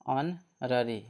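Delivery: "ऑनररी" split into "on" and "rari", no h; silent H. Shown as a demonstration. Teacher answers own question to pupils, "ऑनररी" with silent H. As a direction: break "ऑनररी" into parts, starting on the vowel. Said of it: "इसको क्या बोलेंगे?".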